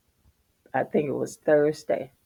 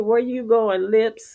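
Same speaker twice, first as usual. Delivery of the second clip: higher teasing voice; teasing husband; 5 semitones higher than usual. Retold or imitated. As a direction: tease her playfully. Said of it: "He said".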